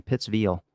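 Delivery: mock the local twang on the end of "Pittsville"; mimicked twang. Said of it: "it's got some type of twang to it".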